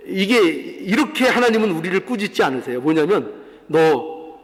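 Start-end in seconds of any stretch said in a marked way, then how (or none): 3.7-4.4 low, restrained scolding; a reproachful question, voiced low; mock scolding. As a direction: imitate a stern reprimand, kept low. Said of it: "이렇게 꾸짖으시는 게 아니에요".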